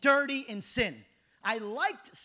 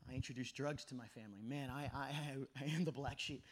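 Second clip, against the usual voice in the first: tearful; 11 semitones lower, 12 dB quieter than usual. Retold or imitated. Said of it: "And I'm just crying".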